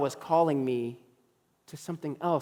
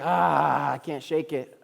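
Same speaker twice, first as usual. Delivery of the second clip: mock reluctance; much slower than usual. Preacher retelling his surrender after a few days, groaning reluctance.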